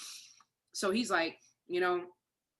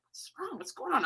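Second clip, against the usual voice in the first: alarmed; 11 semitones higher than usual. Retold or imitated. Alarmed on seeing sister jump up.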